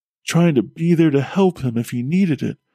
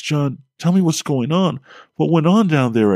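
crying out; 4 semitones higher than usual. Acted. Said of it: "I cried".

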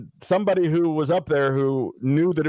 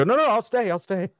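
high, rushed yes; eager acceptance; 10 semitones higher than usual. Retold or imitated. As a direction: jump at the offer, high and quick. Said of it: "I go".

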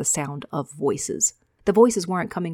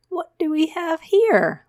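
much higher, slow, taunting voice; menacing soldier; 11 semitones higher, 5 dB louder, slower than usual. Acted. Micah circling the boy, slow and mocking. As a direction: drawl it out like a cat toying with prey.

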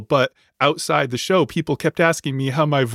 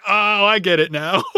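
dawning realization; 8 semitones higher than usual. Retold or imitated. Lookalike seeing the singer onstage, amused realization. Retold realization when show started.

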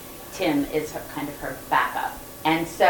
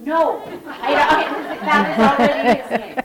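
eager correction; 8 semitones higher, 5 dB louder than usual. Retold or imitated. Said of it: "I said".

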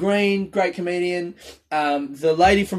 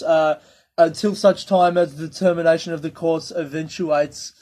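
over-explaining official; 2 semitones higher, 4 dB louder than usual. Retold or imitated. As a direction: drone through every clause like a pompous official. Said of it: "they always over, over fucking explain everything".

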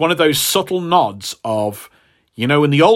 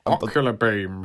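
disgusted mutter of ocular beam; 3 semitones lower, 5 dB quieter than usual. Retold or imitated. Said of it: "I don't know why that's worse".

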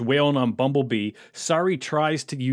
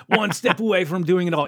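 bad German accent, laughing; 4 semitones higher than usual. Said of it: "This is my awful, awful German accent".

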